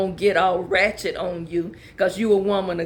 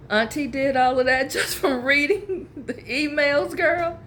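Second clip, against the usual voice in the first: laughing at herself; 5 semitones higher than usual. Real, not acted. Laughs at her own fired-up reading.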